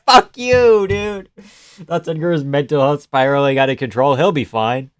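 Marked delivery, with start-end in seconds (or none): 0.1-1.3 high, loud incredulous rant; loud rant with disbelief; exasperated rant. Real, not acted. Venting at the fighter's answers, loud exasperated rant.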